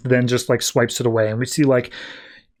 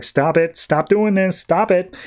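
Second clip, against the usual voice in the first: mock agony; 5 semitones higher than usual. Kyle brought down by Guardians' blast, mock agonized pleading. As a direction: beg through acted pain, pitch climbing. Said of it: "in pain, he's in agony".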